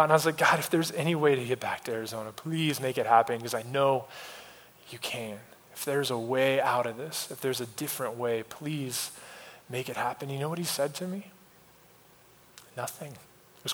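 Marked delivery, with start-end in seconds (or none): 0.4-10.3 low, very soft plea to God; hushed pleading prayer. Retold or imitated. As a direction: sink into a near-murmured plea. Retold desperate prayer alone in trees.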